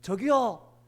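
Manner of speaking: calling loudly to someone above. Retold or imitated. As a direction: shout upward to whoever is there. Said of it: "위쪽을 향해서 큰 소리로 불렀어요".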